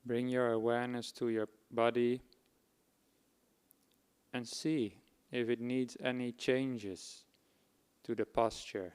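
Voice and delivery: measured instructions, pausing between phrases; guided meditation. Acted. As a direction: guide them unhurriedly into body awareness.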